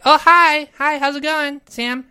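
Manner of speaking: high, loud friendly hello; cheery greeting. Pretend.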